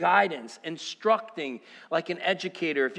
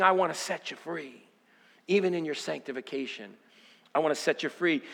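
lower, gentle voice as God; softened preacher voicing God; tender promise; 5 semitones lower, 4 dB quieter than usual. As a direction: ease down into a reassuring promise.

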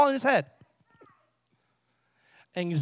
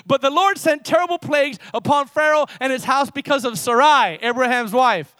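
raised pulpit reading voice; emphatic scripture reading; 4 semitones higher, 6 dB louder than usual. Acted. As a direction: proclaim the verse to the congregation.

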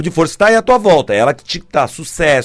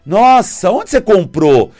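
envious gushing friend; 3 semitones higher, 4 dB louder than usual. Retold or imitated. Mimics envious friend over necklace.

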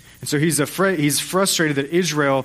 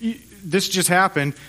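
frustrated; 4 semitones higher than usual. Acted. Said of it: "he's frustrated because he said".

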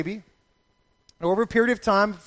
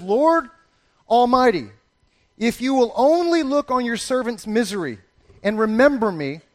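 solemn vow; 2 semitones higher than usual. Acted. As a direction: read it as a sacred vow. Reads Hannah's vow.

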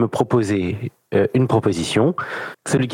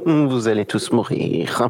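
unhinged villain; slower than usual. Pretend. Game master threatens players, laughing.

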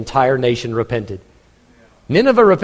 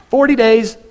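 Forty days, higher and louder; terse proclamation; 7 semitones higher, 5 dB louder than usual. Acted. Preacher mimicking Jonah's curt warning, higher and louder. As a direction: bark out the verdict.

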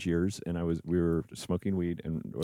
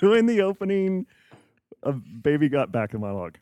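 Alan Rickman; 5 semitones higher, 4 dB louder than usual. Shown as a demonstration. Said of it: "this is Alan Rickman as Hans Gruber".

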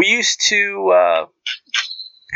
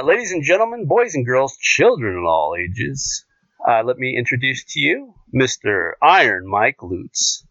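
ring announcer. Pretend. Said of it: "my best Michael Buffer intro".

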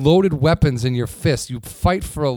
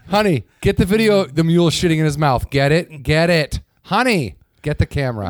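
calling out; 4 semitones higher, 4 dB louder than usual. Pretend. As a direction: call louder to honey. Calling out to wife.

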